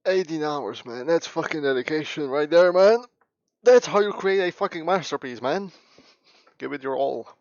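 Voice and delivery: yelling sarcastic praise; loud mock praise. Real, not acted. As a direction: shout it like a hype-man.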